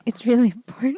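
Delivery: dripping with sarcasm; playing along sarcastically; sarcastic. Sarcastic about filler.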